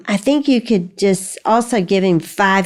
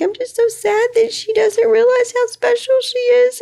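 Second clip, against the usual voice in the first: a much higher crying voice for Abby; teary sad daughter. Retold or imitated. Mother quoting Abby crying over a friend, high tearful. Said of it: "she was just like".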